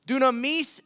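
light Spanish accent on the Greek word. Shown as a demonstration. Preacher pronouncing a Greek word for church, lightly Spanish-accented. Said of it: "I said that with a Spanish accent".

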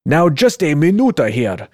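lightly hammed Russian accent; bad Russian accent. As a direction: put on a rough attempt at a Russian accent. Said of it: "whatever bad Russian accent I can come up with".

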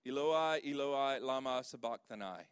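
a confident stab at the Aramaic "Eloi, Eloi, lama sabachthani"; Aramaic pronunciation attempt. Shown as a demonstration. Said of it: "at pronouncing these words".

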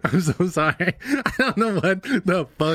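slow, laughing apology; can't stop giggling. Real, not acted. Corpsing in scene.

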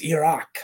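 Iraq with an ee start and open "ahk" ending; plainly demonstrated "ee-ROCK" for Iraq; correct pronunciation. Shown as a demonstration. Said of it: "That's how you pronounce it".

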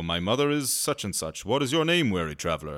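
hammed-up English accent, rising on the question; a mock-English ancient Greek. Ancient Greek asks weary traveller his name, mock English accent. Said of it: "generic English accents".

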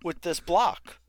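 pushy TV salesman voice; infomercial pitch. Pretend. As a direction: sell it like a late-night ad. Mock knife infomercial pitch.

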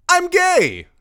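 high, loud panicked outburst; terrified blurt. Acted. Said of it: "got a terrified look on his face and blurted out".

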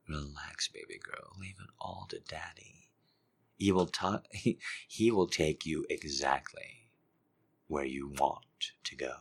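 very soft whispered croon; near-whispered daddy voice; hushed daddy whisper. Acted. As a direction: whisper it close to her ear.

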